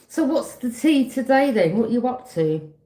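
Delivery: pry with fake sweetness; high sing-song gossip-hunting voice; nosy busybody. Mock nosy greeting.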